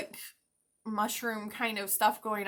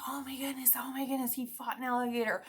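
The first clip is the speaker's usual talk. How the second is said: hushed, higher-pitched imitation of awe; mock amazement; 3 semitones higher, faster than usual. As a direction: gush in a half-whisper like astonished onlookers. Voices the amazed public, hushed.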